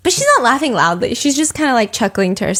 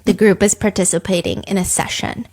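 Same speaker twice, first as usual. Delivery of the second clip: usual speaking voice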